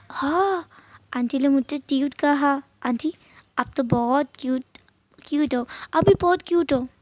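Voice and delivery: lightly voiced happy child; a small boy delighted to be called cute; pleased little boy. Narrator voices little boy Jingi. (हल्की सी खुश बच्चे की आवाज़)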